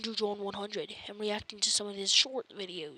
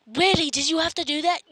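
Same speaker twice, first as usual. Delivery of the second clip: higher, louder exasperated complaint; mock indignant; 6 semitones higher, 6 dB louder, faster than usual. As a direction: play the offended victim. Mock outrage at a prank.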